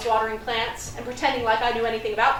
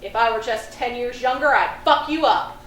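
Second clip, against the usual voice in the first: mock threat; 4 dB louder than usual. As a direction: growl the threat like an old tough guy. Livid old man threatens.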